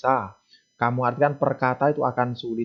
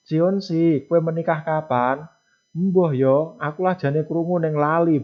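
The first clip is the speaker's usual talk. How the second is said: funny mock dialogue; 4 semitones higher than usual. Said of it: "Akan menjadi lucu nek kamu menerjemahkan".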